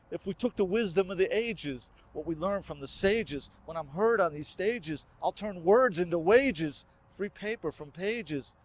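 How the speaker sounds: soft, low-key rhythmic recital; hushed verse. Acted. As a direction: keep the rhymes quiet, holding back before the build. Verse restarts hushed after fading repeats.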